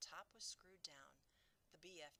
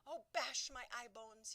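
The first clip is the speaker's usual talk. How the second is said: higher, louder, slow distressed cry; 8 semitones higher, 12 dB louder than usual. Acted. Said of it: "he cried".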